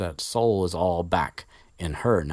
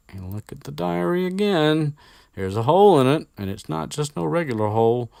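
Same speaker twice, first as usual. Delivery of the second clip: excited Harry; 10 semitones higher, 7 dB louder than usual. Retold or imitated. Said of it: "Harry's like".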